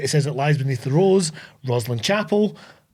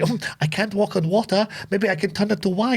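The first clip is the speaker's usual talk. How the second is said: put-on botched French accent, a little higher; bad French accent; 4 semitones higher, 3 dB quieter than usual. Host voices the film's Sophie, badly faked French accent. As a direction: attempt a French accent and miss. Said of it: "meant to be a French accent".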